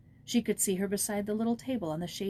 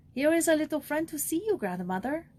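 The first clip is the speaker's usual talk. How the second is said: kind nun voice; 8 semitones higher, 5 dB louder than usual. Acted. Nun greets old woman warmly.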